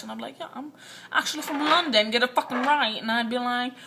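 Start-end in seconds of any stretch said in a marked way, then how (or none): 0.4-3.0 mock London accent, punching up louder; put-on Londoner setting someone straight; British accent. Telling the new kid she's from London, British accent. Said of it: "Oh, she's British".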